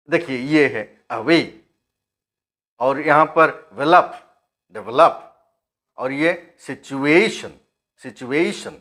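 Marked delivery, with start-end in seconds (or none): 1.1-1.5 AWAY with force on WAY; teacher's stressed example, a-WAY; word stress demo. Shown as a demonstration. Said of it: "देखिए, word stress". 3.7-5.2 DEVELOP with a loud VEL; teacher's example, de-VEL-op, hit hard; word stress demo. Shown as a demonstration. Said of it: "देखिए, word stress". 6.6-8.7 SITUATION leaning on the A syllable; word stress demo. Shown as a demonstration. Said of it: "this is the stress here".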